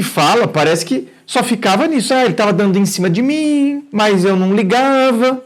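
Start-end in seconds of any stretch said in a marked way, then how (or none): 2.1-5.4 higher, sing-song mock of the letter; mocking paraphrase. Psychologist mimicking the viewer's casual tone, mock-casual. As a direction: parrot her words with gentle irony. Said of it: "do jeito que você fala".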